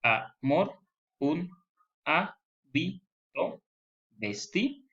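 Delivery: drawn out, hábito stretched very slow; Amor, amor, un hábito vestir read slowly, syllable by syllable; scanning the verse. Shown as a demonstration. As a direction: read the line split into syllables. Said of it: "Deberían ser diez sílabas".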